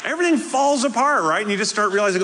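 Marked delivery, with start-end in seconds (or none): 0.0-1.2 laughing it out, higher and louder. Real, not acted. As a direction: let the laugh break through the line. Joking about wife being away.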